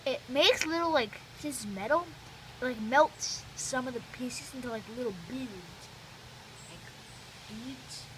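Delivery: talking around a palate expander; speech thick from a mouth appliance. Real, not acted. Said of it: "Sorry, I'm talking weird".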